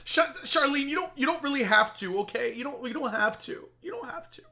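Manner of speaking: high-pitched fake-modest pleading; mock touched protest. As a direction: play overwhelmed by a donor's generosity.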